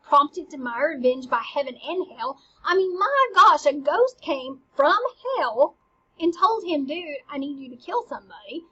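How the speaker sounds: half-acted rising rage at himself; building frenzy. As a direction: work yourself up from annoyed to furious. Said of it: "work himself up into a murderous frenzy".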